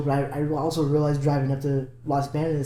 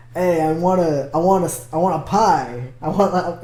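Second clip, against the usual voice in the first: put-on New York accent. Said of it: "he did a New York accent".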